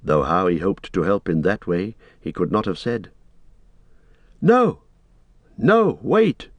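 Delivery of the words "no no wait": high, urgent call; raised, insistent cry; Frodo calling back strongly. A narrator's reading. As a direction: call up firmly to stop someone. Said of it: "Frodo called back more strongly now".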